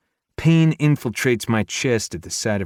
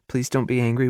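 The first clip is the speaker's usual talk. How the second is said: pleading; 4 semitones higher, faster than usual. A narrator's reading. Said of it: "she pleads".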